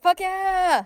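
Greed partying. Acted. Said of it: "You'd be like".

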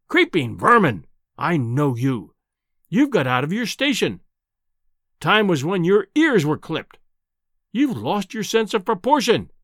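bullying, scornful tirade with emphatic swoops; irascible professor, indignant. Acted. Enraged professor berating a journalist, scornful and overbearing. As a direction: berate him like an enraged, domineering scholar. Voices the raging professor in the story.

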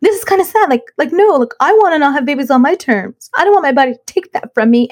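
high-pitched, imitated upset insistence; retold tearful protest. Wife insists on having babies on her terms, mock tearful. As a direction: plead your case as if teary, voice lifted. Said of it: "I'm, like, crying at the Denny's".

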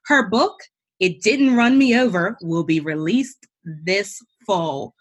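guest bio read aloud with lively lilt; formal introduction. Acted. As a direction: announce the guest from a prepared script, phrase by phrase. Reads guest's prepared bio.

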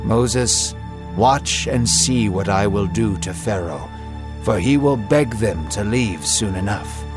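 God comforts Moses, calm and kind; with compassion. Acted. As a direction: soothe a grieving friend. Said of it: "not angrily, but with compassion".

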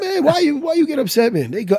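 put-on high-pitched accented mentor; Renzo's accent. Student quotes his instructor's reassurance, in his accent. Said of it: "the accent".

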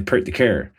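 Canadian accent with full hard r sounds in "Park the car". Shown as a demonstration. Comparing accents, he shows the Canadian way in a Canadian accent. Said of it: "Whereas in Canada".

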